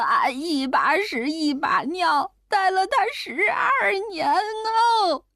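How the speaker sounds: high, slow, wailing complaint; an old grandmother sobbing for pity; wailing old woman. Acted. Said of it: "坐在地上哭了起来". (老太太坐地上拖长哭腔诉苦)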